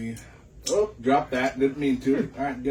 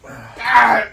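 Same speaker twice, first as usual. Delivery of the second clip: loud cry of pain; pained shout; 3 semitones higher, 4 dB louder, much slower than usual. Real, not acted. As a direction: yell out from the burn. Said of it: "it burns so much".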